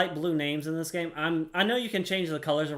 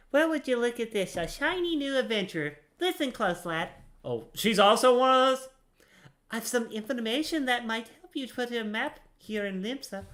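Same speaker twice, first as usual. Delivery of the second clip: higher, sailor-ish put-on accent for Ninya; playful accent reading an adventurer's lines; 7 semitones higher than usual. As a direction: voice the NPC with a made-up salty accent. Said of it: "she doesn't actually have that kind of accent".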